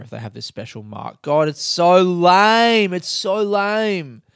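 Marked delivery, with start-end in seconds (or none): 1.2-4.2 disgusted. Real, not acted. Disgusted rant about movie.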